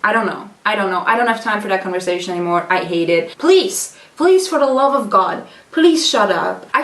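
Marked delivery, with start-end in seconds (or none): 3.4-6.7 annoyed pleading. Real, not acted. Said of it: "I'm very annoyed".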